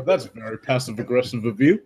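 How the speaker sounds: deadpan comeback. Acted. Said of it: "I look at the cop and go".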